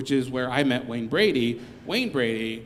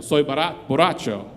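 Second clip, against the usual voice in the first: Spanish; 5 dB louder than usual. Retold or imitated. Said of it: "he said it really well when he did it".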